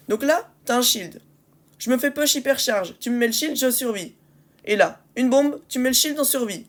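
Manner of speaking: raging gamer. Real, not acted. Lecturing teammate about shield.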